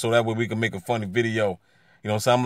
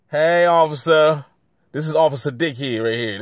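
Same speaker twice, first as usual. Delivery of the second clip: taunting call out; 3 semitones higher, 5 dB louder than usual. Real, not acted. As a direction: call across the street to mock him. Calling out to passing cop.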